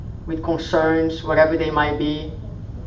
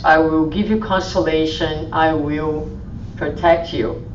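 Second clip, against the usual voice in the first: tender comfort; 2 semitones lower than usual. Acted. Jesus voiced, comforting the weary.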